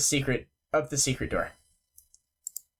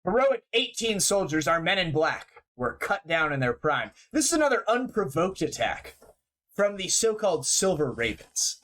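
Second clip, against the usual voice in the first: newscaster voice. Acted. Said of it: "Garm said I sounded like a newscaster".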